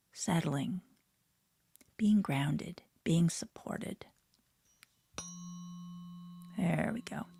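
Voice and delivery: half-whispered guiding voice; hushed guided imagery; guided meditation. Acted. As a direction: lead the listener gently into the image.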